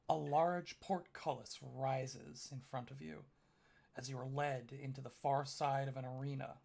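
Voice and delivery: measured, dramatic narration with long pauses; game master's scene setting. Acted. Game master describing the arena to players, measured dramatic narration. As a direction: set the arena scene slowly and deliberately.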